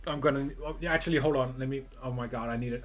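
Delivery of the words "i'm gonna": strained voice. Real, not acted. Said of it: "my voice".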